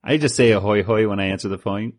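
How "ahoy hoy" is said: Mister Burns ahoy hoy. Retold or imitated. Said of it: "because Mister Burns said it".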